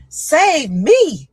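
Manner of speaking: high, loud, urgent plea; retold scream. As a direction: shout at the nurses so they save you first. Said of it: "I'm screaming to them".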